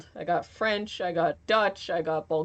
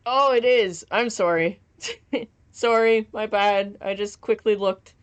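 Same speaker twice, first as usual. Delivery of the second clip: laughing apology; 2 semitones higher, 6 dB louder than usual. Real, not acted.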